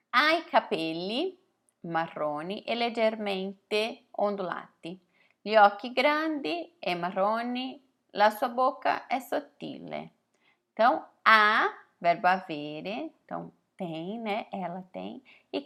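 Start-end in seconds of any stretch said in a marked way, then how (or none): 0.1-10.1 reading an Italian passage slowly, word by word; slow text reading. Acted. Teacher reading an Italian text to her students, slow and clear.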